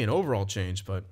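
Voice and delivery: hiccuping while talking; hiccups. Real, not acted. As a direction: talk through the hiccups. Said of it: "I can't stop hiccuping right now".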